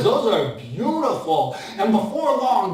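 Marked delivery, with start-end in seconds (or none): 0.0-1.5 slow, low admiring voice; Bob the baker. Acted. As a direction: savour it as the old baker.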